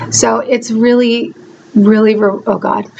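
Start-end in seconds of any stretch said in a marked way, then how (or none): 1.8-2.9 voice breaking. Real, not acted. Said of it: "I just had a little crying spell".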